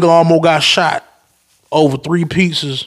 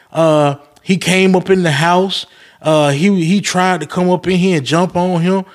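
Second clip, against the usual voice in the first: complaining customer voice; 3 semitones higher than usual. Retold or imitated. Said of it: "They were like".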